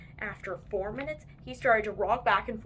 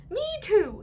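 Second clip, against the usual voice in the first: put-on embarrassed boy; 10 semitones higher, 5 dB louder than usual. A narrator's reading. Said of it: "said Taylor J".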